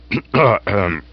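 a discreet butler's cough; gentle cough. Acted. Jeeves announcing himself with a gentle cough. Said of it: "that gentle cough of his".

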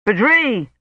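restrained narrated shout. A narrator's reading. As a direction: call out, without full volume. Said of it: "he shouted".

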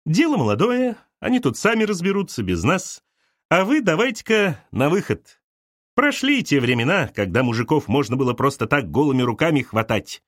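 high, patronising dismissal; mother showing the guest the door; condescending mother. Acted. Mother sends Arina away. (мать снисходительно выпроваживает)

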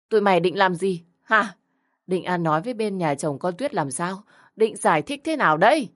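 a moderately voiced outraged tirade; yelling at parents. Grandmother yelling at the girl's parents, angry rant. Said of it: "bà nội tiếp tục gào lên".

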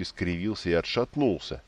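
ordinary delivery, nothing marked

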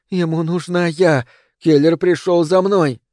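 high, slow, trembling whisper; frightened whisper. A narrator's reading. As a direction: whisper it, terrified and breathless. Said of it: "испуганно переводя дыхание".

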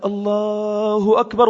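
soft, bashful takbir, drawn out; hushed, embarrassed chant. Retold or imitated. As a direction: say it shyly so people won't hear. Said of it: "وطي صوتي الناس تسمعني".

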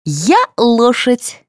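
put-on slow, high child's voice; a small girl shouting with delight; happy little girl. A narrator's reading. Little Sveta announcing to her mother, childish glee. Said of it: "обрадовалась Света".

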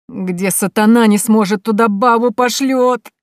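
high, loud, slow wail; pitiful, drawn-out lament; plaintive whine. Acted. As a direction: whine it out, stretching the words in complaint. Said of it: "жалобно заскулил дядюшка".

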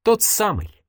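mildly sad, high then falling; understated sorrow. A narrator's reading. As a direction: confirm it ruefully, letting the pitch drop. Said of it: "грустно произнесла она".

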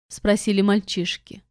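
ordinary delivery

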